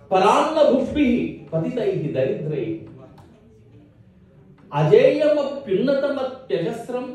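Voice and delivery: lilting, measured chant of verse; Sanskrit verse recitation. Acted. Poet praising Bharat to a gathering, chanted recitation. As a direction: recite with drawn-out line endings.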